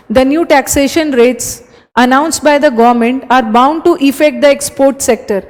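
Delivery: very slow careful reread; slow dictation. Shown as a demonstration. Teacher rereading the exam sentence slowly. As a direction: read it again slowly, word by word. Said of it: "rereads sentence".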